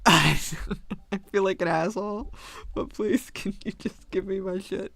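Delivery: slowed, hushed, half-whispered plea; sheepish plea. Retold or imitated. Caller sheepishly begging the chatty worker for her supplies. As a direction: beg apologetically, trailing into a whisper.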